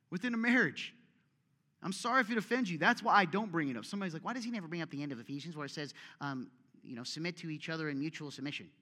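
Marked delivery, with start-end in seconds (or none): 4.2-8.7 quick, put-on whiny critic; a lightly voiced objector, fast and mocking. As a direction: rattle it off as a nitpicking complainer. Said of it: "I don't know why I do that voice".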